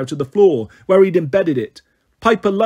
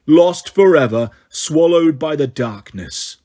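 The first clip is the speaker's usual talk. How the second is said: menacing giant; 4 dB louder, slower than usual. Acted. Giant taunting in dark.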